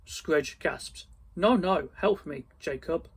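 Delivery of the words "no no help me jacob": begging. Acted. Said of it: "he begged".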